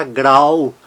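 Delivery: grau with a clear "ah-oo" glide; AU as in Portuguese. Shown as a demonstration. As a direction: say grau with the AU sounded "ow". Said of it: "se pronuncia A U".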